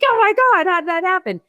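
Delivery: very high, squeaky mock crying; high-pitched retold weepy amazement; tearful disbelief. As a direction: imitate an overwhelmed winner's squeal.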